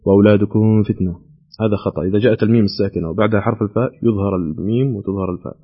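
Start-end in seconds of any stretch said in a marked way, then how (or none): 0.1-1.3 وأولادكم with the mim swallowed into the f of فتنة; merged mim error. Shown as a demonstration. Host imitating a common reciting mistake, merged mim. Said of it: "يدغمها".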